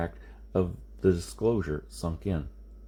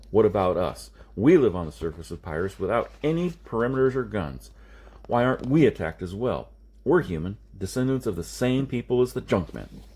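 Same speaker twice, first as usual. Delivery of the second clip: put-on louder, insistent young man pressing his point; Rez's challenge; 4 dB louder than usual. Rez confronting Jason about his people, louder and insistent. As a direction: push back hard, demanding an answer.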